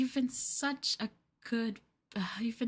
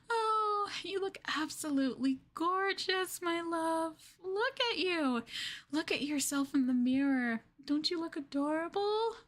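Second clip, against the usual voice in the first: higher, gushing over how he looks; gushing delight; 5 semitones higher than usual. Acted. Girlfriend gushing over her collared partner, excited. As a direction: coo over him like a new toy.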